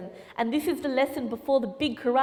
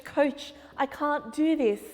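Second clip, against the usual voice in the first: put-on nervous boy; 3 semitones higher, slower than usual. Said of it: "he's really nervous".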